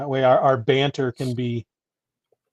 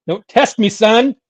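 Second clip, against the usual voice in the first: mock stern; 9 semitones higher, 9 dB louder, slower than usual.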